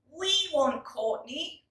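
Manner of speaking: put-on high, slow, eager child voice; lightly voiced children, set on Courtney; children insisting. Children tell the man they choose Courtney, eager. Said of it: "said the children".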